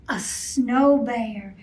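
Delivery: slow, wondering reveal; amazed gasp. Acted. Showing children the surprise snow bear, amazed. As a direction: gasp then marvel at it.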